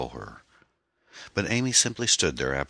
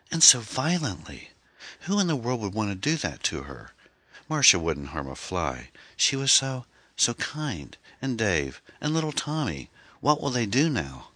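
tearful grief; 8 semitones higher than usual. A narrator's reading. Grieving wife sobs over murdered friend.

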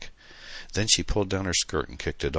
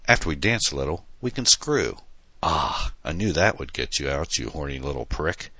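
mild mock scream. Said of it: "she screamed".

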